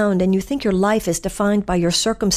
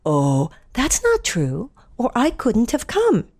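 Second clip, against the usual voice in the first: fairy godmother; 3 semitones higher, slower than usual. Retold or imitated. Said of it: "To which the fairy godmother responds".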